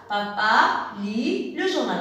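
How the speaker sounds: put-on slow, word-by-word "Papa lit le journal" for children to repeat; slow model sentence. Shown as a demonstration. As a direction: spell out "Papa lit le journal" slowly so kids can echo it. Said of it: "Répétez avec moi la phrase".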